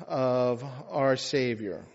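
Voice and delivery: measured, even scripture reading; liturgical reading. Acted. Priest reads the epistle to the congregation, measured liturgical reading. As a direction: read it out evenly to a congregation.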